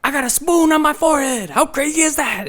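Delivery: goofy Sandler voice. Retold or imitated. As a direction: squeak it out like a goofball. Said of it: "He'd go on there every Halloween and be like".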